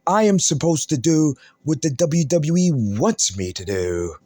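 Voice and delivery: a hint of a mock Cody voice, dropping away at the end; imitating Cody. Mocking Cody's promo style for his viewers, lightly imitated. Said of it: "let me talk like Cody".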